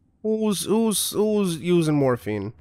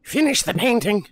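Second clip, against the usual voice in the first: yelled; 8 semitones higher, 3 dB louder than usual. Real, not acted. Yelling at game character.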